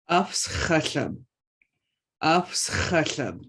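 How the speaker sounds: "Afs chashav" slowly, with a blown-out ch; slow teaching demo. Shown as a demonstration. Teacher repeats allergic slowly for the class. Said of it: "make sure you're making that ch sound".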